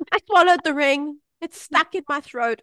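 high-pitched mock-panicked child, loud at first; acted-out child in high alarm; panicked child imitation. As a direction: imitate a frightened kid's urgent confession. Voices daughter's alarmed confession.

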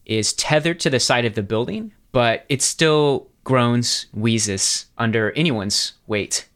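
measured, deliberate scene setting; game master's narration. Acted. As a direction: set the scene with deliberate pauses.

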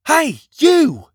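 loud, high attention-getting yell; high, loud hail across a distance; taunting shout. A narrator's reading. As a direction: yell to distract an enemy. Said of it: "he shouted to them".

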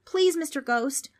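slow, high-pitched plea; begging. A narrator's reading. Frank appeals to the ghost, begging. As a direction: beg desperately, stretching the please. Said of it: "Frank begged".

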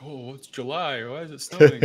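high, rising into a loud disbelieving question; puzzled surprise. Retold or imitated. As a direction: act baffled at snow in July. Acted confused family reaction.

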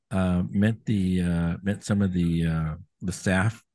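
robotic, glitchy connection audio. Real, not acted. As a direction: sound like a robot on a bad call. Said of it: "you're starting to sound like a robot".

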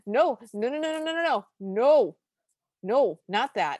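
loud chanted protest, pitch climbing; mock protest. Hosts reading their notes as a loud protest. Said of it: "our notes both go".

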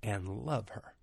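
lightly voiced gentle command, slow and spaced out; a hint of tender divine instruction; the Lord. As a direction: soften toward the end, pausing between phrases. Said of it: "And the Lord said".

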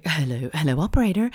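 lightly put-on American hello; American accent. Mimicking a caller to the operator, accidental American accent. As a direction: slip into a bit of American. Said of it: "I don't know why I went American".

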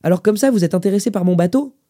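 put-on lifted old man's question. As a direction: ask chattily as an old man. Old man questions his visitor.

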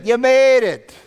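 high, loud, drawn-out "made"; hammed-up amazement, swelling on "made"; imitated preacher's punchline. Preacher showing how the quote was said, imitated amazement. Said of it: "That's how he said it".

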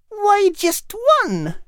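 put-on high, slow, downcast girl's question; a young girl saddened by the news, asking slowly; sad young girl. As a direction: ask slowly, letting the sadness show. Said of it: "Kate asked sadly".

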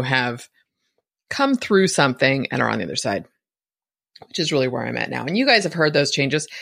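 slightly gruff, rough morning voice. Real, not acted. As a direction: talk through a rough, tired throat. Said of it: "my voice is a little rough this morning".

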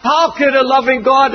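ordinary talk, nothing marked

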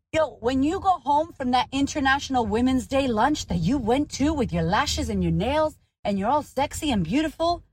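ordinary talk

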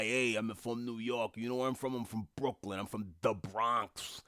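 lightly mocked New York tough guy; a hint of swaggering Bronx bravado; tough New Yorker. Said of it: "all of the tough guy".

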